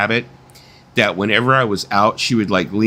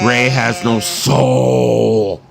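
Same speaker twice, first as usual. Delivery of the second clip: deliberate; 2 semitones higher, much slower than usual. Acted.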